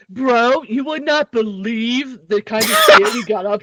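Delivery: laid-back party dude; frat bro. Pretend. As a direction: brag like a chill frat guy. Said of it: "using my bro voice".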